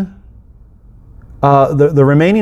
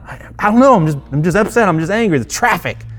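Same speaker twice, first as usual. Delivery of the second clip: whiny sulk; 4 semitones higher, faster than usual. Retold or imitated. Sulky reply about traffic anger.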